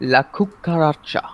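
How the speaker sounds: slow, rolled Spanish La Cucaracha; Spanish accent. Shown as a demonstration. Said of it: "My Spanish accent's probably terrible".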